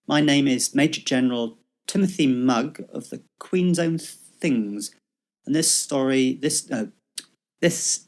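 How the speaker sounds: stumbling amateur read of a pompous major general; Major General Mugg. Acted. Friend reading the Major General part, halting and barely in character. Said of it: "You do the bits marked mug".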